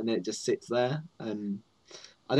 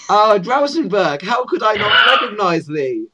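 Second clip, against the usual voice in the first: higher, mock-archaic guard voice; goblin guard; 6 semitones higher, 6 dB louder, slower than usual. Goblin guard greets Drausenberg, high theatrical recognition. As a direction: grandly hail a visitor in a raised voice. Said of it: "stopped by a goblin guard".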